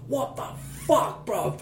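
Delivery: high, breathy mock yell at the intruder; half-laughing fake shriek of alarm; retold scream. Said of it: "Just, like, screaming at this brer".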